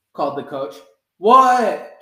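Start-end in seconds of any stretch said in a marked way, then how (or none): 1.2-2.0 loud high startled what; startled answer. A narrator's reading. Froggy answers the coach, loud startled shout. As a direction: shout back, caught off guard.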